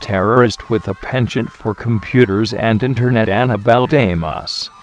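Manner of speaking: lightly voiced mock terrorist reading threats; a hint of a hammed-up terrorist; parody terrorist voice. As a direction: play a bumbling villain giving a video message.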